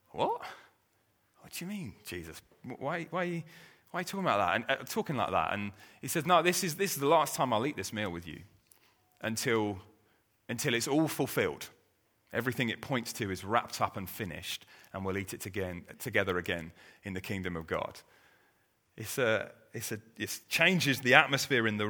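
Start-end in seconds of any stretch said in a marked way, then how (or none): 0.1-5.5 hushed alarm. Retold or imitated. Disciples alarmed by Jesus' words. 6.2-18.0 quiet and solemn. Retold or imitated. Jesus explains his coming suffering.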